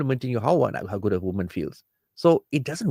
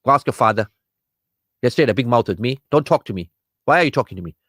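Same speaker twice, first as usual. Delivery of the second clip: irritated husband snapping back, a touch louder; mock angry husband; 4 dB louder, faster than usual. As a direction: play the husband who brushes his wife off, rising annoyance.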